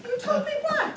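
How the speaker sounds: a baffled reporter breaking into laughter; laughing confusion. Acted. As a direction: squeak it out while cracking up. Comic confusion escalating, both laughing.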